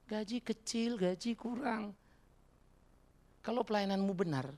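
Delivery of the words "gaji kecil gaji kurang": mock complaint. Mimics pastors fussing over pay.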